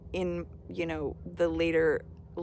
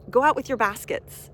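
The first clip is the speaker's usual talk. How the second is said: excited urging; 4 semitones higher, 7 dB louder than usual. Real, not acted. Excited urging about abundance.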